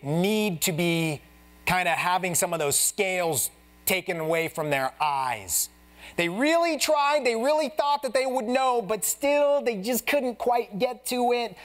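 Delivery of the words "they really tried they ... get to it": lifted preaching voice building emphasis; rising intensity. Real, not acted. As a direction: plead it upward with urgency.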